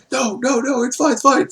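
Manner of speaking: high falsetto backpedalling; hammed-up squeaky reassurance; mock placating. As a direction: talk someone down in a silly high voice. Voices wrestler placating the sister.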